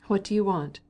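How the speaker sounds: annoyed. A narrator's reading. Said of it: "with an air of annoyance".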